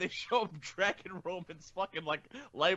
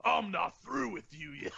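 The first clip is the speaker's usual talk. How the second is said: mock menace; 3 semitones higher than usual. Wrestler's line retold in hospital.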